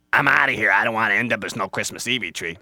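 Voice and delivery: loud character outburst; alarmed Squirrel. Acted. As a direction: blurt it out, ready to flee. Squirrel flees.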